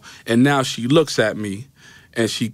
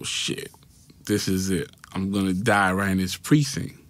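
much softer inner-thought voice; quiet resigned dread; 5 dB quieter than usual. Retold or imitated. Teen thinking he'll die in the precinct, hushed dread. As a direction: say it under your voice, resigned. Retold dread as detective lunges.

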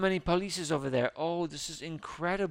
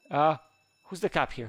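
ordinary delivery

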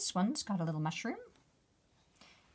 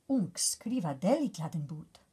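breathy bug whisper; a bug whispering to another; 4 semitones lower, 3 dB louder than usual. Acted.

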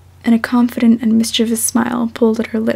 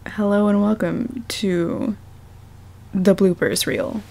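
announcer intro; slower than usual. Shown as a demonstration. Reader trying a bloopers intro, slow announcer voice. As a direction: draw out the welcome like a show host. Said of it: "Is that lame?".

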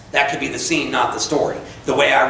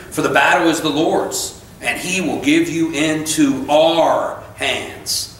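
emphatic scripture reading; slower than usual. A narrator's reading. Reads scripture aloud.

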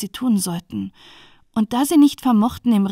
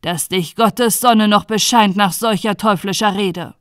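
louder, appalled rebuke; moderately raised judge's voice; indignant calling out; 5 dB louder than usual. Acted. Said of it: "rief der Richter".

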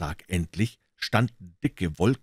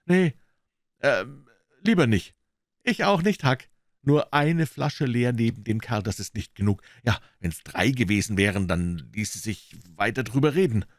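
put-on higher boy voices; boyish voices; 4 semitones higher than usual. Huck and Tom backing off, nervous boyish voices. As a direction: back off nervously.

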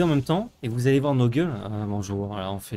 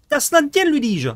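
high, loud storybook declaiming; mock literary; 12 semitones higher, 6 dB louder than usual. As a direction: declaim like an old novel narrator. (narrateur littéraire pompeux)

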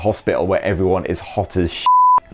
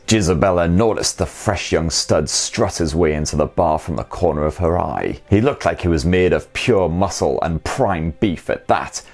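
lower, a hint of a seductive uncle; lightly voiced sultry reader; sexy uncle voice; 3 semitones lower than usual. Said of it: "the sexy uncle voice".

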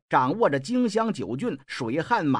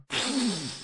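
spitting blood sound; 4 semitones higher, 6 dB quieter than usual. Acted. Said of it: "一口鲜血喷洒在床边".

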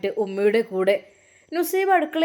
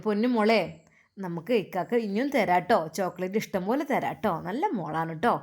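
tender comforting uncle; 3 semitones lower, 4 dB quieter than usual. Acted. Navas comforts the child.

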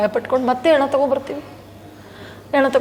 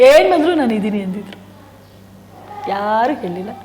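normal talking voice

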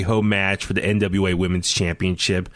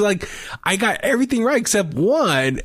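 usual speaking voice

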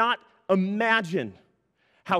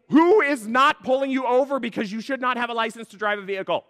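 mock indignation; 4 semitones higher, 4 dB louder than usual. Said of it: "And I'm thinking".

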